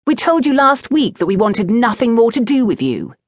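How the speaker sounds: put-on lightly haughty young lord's set-down; future duke. A narrator's reading. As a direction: dismiss him like a young duke. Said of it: "sounding all of a sudden like a future duke".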